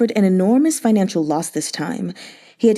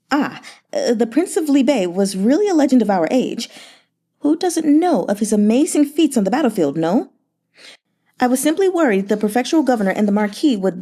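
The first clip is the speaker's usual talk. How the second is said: lightly raised, sweet-talking merchant; a fawning, flattering merchant, lightly voiced; Yan Hezhu's voice; 3 semitones higher than usual. Merchant flattering the grieving governor, sugary and light.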